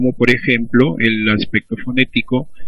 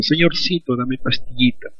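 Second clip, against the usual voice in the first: regional example phrase; 4 dB quieter than usual. Shown as a demonstration. Teacher voices a regional speaker's request for pills. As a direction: voice the diminutive-heavy phrase lightly. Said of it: "la oración dice".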